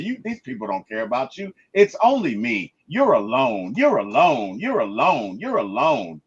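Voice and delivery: low repeated taunt; taunting Void. Retold or imitated. The Void isolating Robert, low and insistent. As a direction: press it down on him, over and over. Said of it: "he's keying on all of it".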